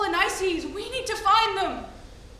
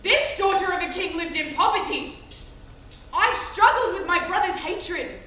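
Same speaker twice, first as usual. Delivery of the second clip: raised, emphatic voice of grievance; impassioned protest; 3 semitones higher, 6 dB louder than usual. Acted. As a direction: push the words out with wounded force. Protests her suffering to her lover.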